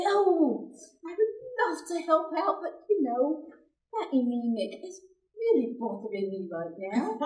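mock-innocent daughter dodging chores; fake sweet excuse. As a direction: lay the sugary excuse on thick. Feigned excuse to avoid dishes.

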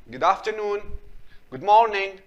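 "afternoon" and "morning" with silent R. Shown as a demonstration. Teacher models greetings for pupils, silent R. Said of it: "So الآر هنا silent".

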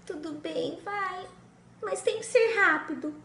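high, grudging; reluctant princess. Acted. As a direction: get it over with quickly. Princess before the kiss.

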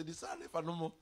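whispered quickly under the breath; whispered aside. Retold or imitated. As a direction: drop to a fast whisper. Wife's remark whispered.

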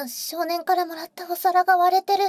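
loud, high cry of dismay; the gift is broken, it hits hard; dismayed surprise. Real, not acted. Finding the boy's gift plate broken, dismayed cry.

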